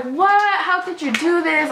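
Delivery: imitating an outraged mom, pitched high; mad mom. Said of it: "My mom is so mad".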